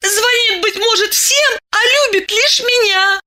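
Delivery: put-on high, jealous girlish cry; girl jealously insisting he loves only her; jealous notes. A narrator's reading. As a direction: let a jealous edge in, high. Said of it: "с ревнивыми нотками воскликнула".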